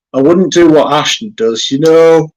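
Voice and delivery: talking through a yawn; words stretched by a yawn. Real, not acted. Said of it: "Sorry, I keep yawning".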